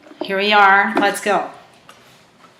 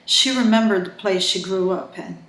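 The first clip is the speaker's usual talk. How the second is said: calm, steady reading of a thriller; measured storyteller voice; story narration; 4 dB quieter than usual. A narrator's reading. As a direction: read the novel aloud, drawing listeners in. Reads her thriller novel aloud.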